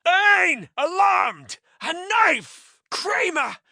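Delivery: high, loud frightened cries; alarmed cry. Acted. Elaine alarmed at knife.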